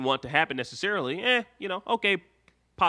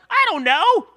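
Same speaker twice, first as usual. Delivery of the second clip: put-on high, loud, whiny teen voice with nervous laughs; mock a moody teenage boy, pitched way up; hammed-up angsty teen whine; Lars impression; 7 dB louder than usual. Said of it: "That was my Lars impression".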